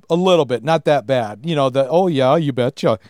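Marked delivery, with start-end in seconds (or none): 1.9-3.0 lightly put-on Fargo accent; Minnesota accent. Minnesotan imitates how people around here talk, light Fargo accent. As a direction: round the vowels like a Minnesotan, mildly. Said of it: "some people do talk like that".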